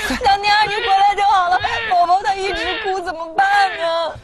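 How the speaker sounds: high, whiny plea; distressed appeal. Acted. Greeting returning friend with crying baby, distressed.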